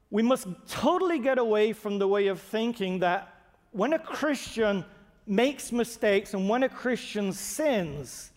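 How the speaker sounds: ordinary talk, nothing marked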